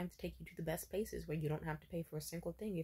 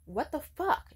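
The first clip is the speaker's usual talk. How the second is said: higher, louder mock outburst on the repeat; imitated outrage; 9 semitones higher, 7 dB louder, slower than usual. Jealous ex hearing about the gift, mock outraged and higher. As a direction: escalate the second one, pitched way up. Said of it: "And he was angry".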